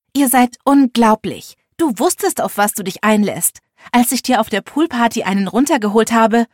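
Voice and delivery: loud, bitter accusation; angry outburst. Acted. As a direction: throw it at him in public. Heated quarrel in the diner.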